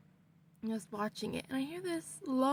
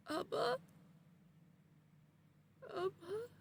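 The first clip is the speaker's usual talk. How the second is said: fearful calling; 9 semitones higher, 7 dB quieter than usual. Retold or imitated. Sees dead grandmother.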